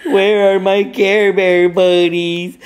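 slow, whimpering mock cry; whiny crying baby. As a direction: whine it like a lost little kid. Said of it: "He was crying like a baby".

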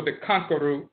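"Conqueror" said as KONK-uh-roo; dialect pronunciation. Shown as a demonstration. Lecturer correcting the root's name, "Conqueror" as konk-uh-roo. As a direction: end "Conqueror" on a roo sound. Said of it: "not conqueror root".

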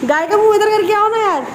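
high, loud call to mother below; shouting down. Real, not acted. To her mother below about the cow, a loud high call. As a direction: yell it down from the roof.

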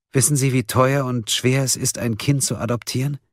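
high-pitched, earnest troubled woman; troubled suspect confessing. A narrator's reading. Marlin confesses to the prosecutor and justifies herself, high and earnest.

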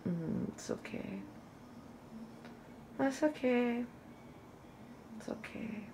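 very soft, hushed reassurance; gently placate, barely above a murmur; soothing. Retold or imitated. Daughter comforting her crying mom, softly soothing.

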